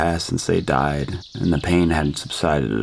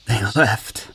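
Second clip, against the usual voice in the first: choked up; 5 semitones higher than usual. Acted. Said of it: "I choked out through tears".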